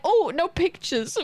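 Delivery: high-pitched, drawn-out shy refusal; mock-bashful high voice; camera-shy mock voice. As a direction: play coy, high and slow. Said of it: "They're camera shy. They were like".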